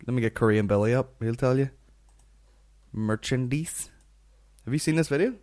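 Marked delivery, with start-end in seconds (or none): 2.9-3.9 "Merchandise" drawn out to end in "deece"; odd pronunciation. Shown as a demonstration. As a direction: say "Merchandise" rising, rhyming its end with "geese". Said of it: "that's how it's pronounced".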